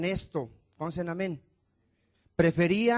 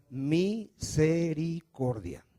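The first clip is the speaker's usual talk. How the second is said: slow drawn-out word; much slower than usual. Shown as a demonstration.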